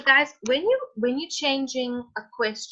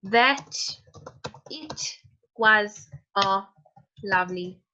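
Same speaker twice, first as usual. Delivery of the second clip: slow dictation; slower than usual. Shown as a demonstration. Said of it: "how I just used common sense".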